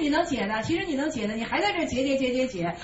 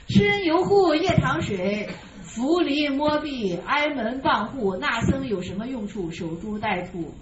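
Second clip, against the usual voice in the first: put-on slow, measured recitation of the old text; verse recitation; slower than usual. Teacher reading the master's commentary aloud to students, slowly. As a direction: read each phrase out deliberately.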